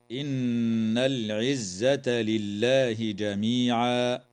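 very slow recitation; slow tajweed reading; Quranic recitation. Shown as a demonstration. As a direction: recite slowly and stop on قولهم. Verse recited.

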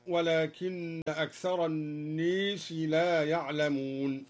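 slow recitation, "الناس" with its aa bent to a long e; imala. Shown as a demonstration. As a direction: say "الناس" as "an-nees". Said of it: "وأمال الناس من قوله تعالى". («الناس» بالإمالة، بترتيل متمهل)

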